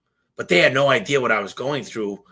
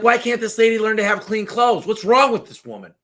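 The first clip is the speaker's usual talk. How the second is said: high, whiny nagging wife voice; crabby complaining wife; 9 semitones higher than usual. Acted. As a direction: nag the husband about the neighbor. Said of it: "This woman is a pretty crabby lady".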